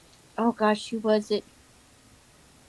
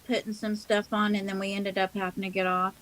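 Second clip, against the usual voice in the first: mouth full. Real, not acted. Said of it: "Sorry, I'm eating".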